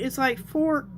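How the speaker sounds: hiccuping mid-word; hiccups. Real, not acted. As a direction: talk through a hiccup. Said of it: "I have the hiccups".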